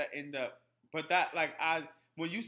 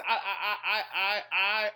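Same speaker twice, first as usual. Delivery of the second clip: laughing; 5 semitones higher, 9 dB louder, slower than usual. Real, not acted. Breaks into laughter mid-sentence.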